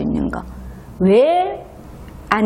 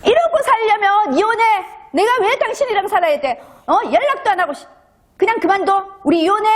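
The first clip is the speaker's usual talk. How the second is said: high, raised voice, demanding a divorce; mock-screaming at him, much higher than her own voice; furious wife; 10 semitones higher than usual. Wife yelling at her husband who came home late, high and angry.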